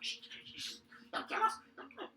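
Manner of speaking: hushed shushing into tiny high squeak; frightened kobold. Acted. Terrified kobolds hide from the players, squeaky frightened plea.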